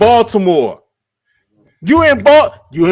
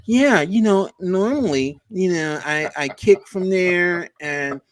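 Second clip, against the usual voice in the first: mock Tucker press answer; 4 semitones lower, 6 dB quieter than usual. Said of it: "you went".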